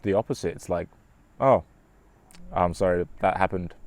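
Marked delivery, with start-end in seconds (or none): 1.4-3.7 flat sympathy. Shown as a demonstration. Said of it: "a sympathy response".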